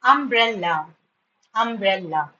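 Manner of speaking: "Umbrella" in three beats, um-brel-la; teacher sounding out "Umbrella"; syllabified. Shown as a demonstration. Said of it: "Three syllables".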